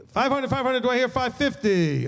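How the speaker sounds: quick auctioneer patter. Pretend. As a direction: rattle off bids like an auctioneer. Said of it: "I went into my auctioneer voice".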